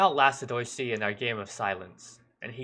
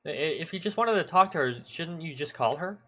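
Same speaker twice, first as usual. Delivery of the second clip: higher, challenging question; defensive retort; 6 semitones higher than usual. Acted. Boy challenges the policeman's visit, defensive retort. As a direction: push back, a touch indignant.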